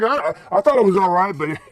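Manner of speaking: high, laughing mock defense; telling his dad, laughing sheepishly; laughing through words. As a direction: giggle it out sheepishly. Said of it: "I was like".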